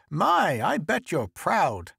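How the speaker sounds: put-on high, swooping old woman's voice; piping mother-in-law. A narrator's reading. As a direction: gush proudly in a piping old voice. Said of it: "piped mother-in-law".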